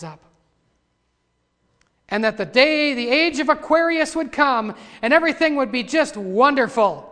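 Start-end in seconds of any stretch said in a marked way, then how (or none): 2.1-7.1 loud, raised proclamation; full-voiced preaching. Preacher mocking the hoped-for Age of Aquarius, in full-voiced preaching.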